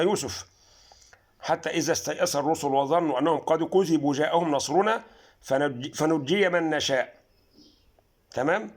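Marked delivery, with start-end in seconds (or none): 1.4-7.1 Quran recitation. Shown as a demonstration. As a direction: draw out the verse as in prayer. Reciting Yusuf 110.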